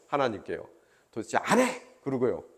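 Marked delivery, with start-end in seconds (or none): 1.1-1.8 a half-hearted indignant outburst, pitched higher; mock refusal. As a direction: imitate grumbling at God with a mock huff. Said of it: "원망하고 이렇게 손가락질 했을 것 같아요".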